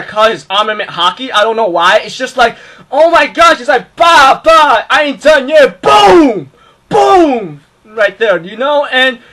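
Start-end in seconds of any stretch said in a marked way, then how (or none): 2.9-7.6 hyped fight sounds. Retold or imitated.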